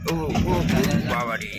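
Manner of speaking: breathless startled whisper, slow; startled gasp. Real, not acted. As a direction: gasp it out in alarm. Startled by a drain on the road.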